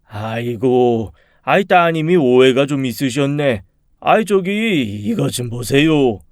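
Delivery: drawn-out, placating man's voice; a hint of a conciliatory tradesman; lightly voiced workman. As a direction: gently talk down an upset customer. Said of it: "한 남자가 제게 다가와 이렇게 얘기했습니다".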